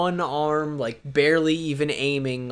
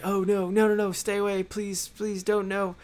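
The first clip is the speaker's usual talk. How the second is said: high, small pleading voice; mock freaking out; 7 semitones higher than usual. Retelling James freaking out at the boy, high mock pleading. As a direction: plead in a put-on high panic. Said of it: "he starts freaking out".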